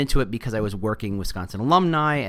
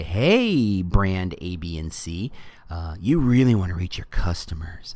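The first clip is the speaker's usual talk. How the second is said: weird Facebook voice; 3 semitones lower, slower than usual. Pretend. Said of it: "that weird Facebook accent or voice".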